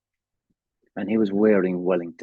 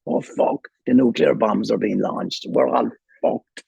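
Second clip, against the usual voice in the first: retold airport panic, half-whispered oaths rising to a higher cry; mock panic; 3 semitones higher, 4 dB louder than usual. Recalling the Chicago airport alarms, imitating his own mock panic. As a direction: replay the alarm-bell terror, half in jest. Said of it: "And I went".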